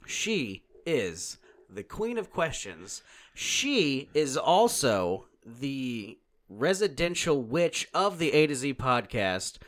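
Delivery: drawn-out, building ring-announcer introduction; grand announcer. Acted. Host presenting the podcast's resident witch, grand announcer.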